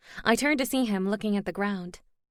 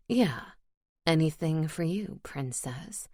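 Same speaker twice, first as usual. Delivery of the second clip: low male voice; 4 semitones lower than usual. Acted. Elias answers her.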